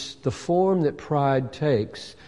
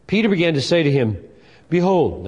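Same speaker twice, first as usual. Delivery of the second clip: first take; 4 semitones higher, 5 dB louder than usual. Shown as a demonstration. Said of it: "what tone of voice should I use here?".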